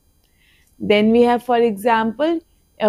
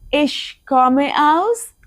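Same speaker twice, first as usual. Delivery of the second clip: very slow repeat rising on aus; 4 semitones higher, much slower than usual. Shown as a demonstration. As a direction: model it again, open-ended.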